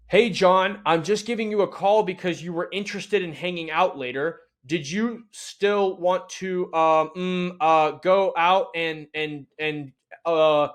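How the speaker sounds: stilted scripted pitch, stumbling with uh and mm; stiff telemarketer call. Shown as a demonstration. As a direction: read it like a nervous cold caller. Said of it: "how I wouldn't call my best friend".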